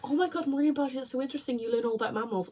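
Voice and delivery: high, gushing imitation of an impressed friend; gushing mock excitement. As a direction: lightly mimic someone amazed by your degree. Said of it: "It's either".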